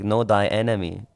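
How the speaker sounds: lightly put-on Asian accent; a hint of generic Asian accent. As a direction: quote it in a mock Asian accent. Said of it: "I said it in the Asian accent".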